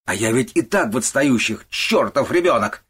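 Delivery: exploding in anger. A narrator's reading. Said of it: "он взорвался".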